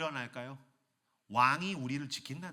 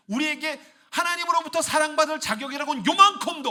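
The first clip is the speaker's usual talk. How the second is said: preaching at full force; 12 semitones higher, 11 dB louder than usual. Real, not acted. Preaching peak.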